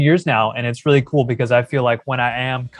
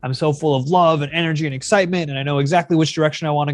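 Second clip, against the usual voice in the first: higher-pitched imagined viewer, thrilled; acted elated gushing; 4 semitones higher than usual. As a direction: gush as an empowered viewer, higher voice. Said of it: "you're gonna be like".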